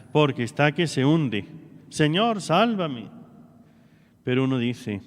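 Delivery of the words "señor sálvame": a plain, earnest plea, no fear in it; plea of need. Retold or imitated. Peter, no longer afraid, begs out of need: an earnest plea. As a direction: ask out of need, not terror. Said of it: "ahora grita no de miedo, ahora grita de necesidad".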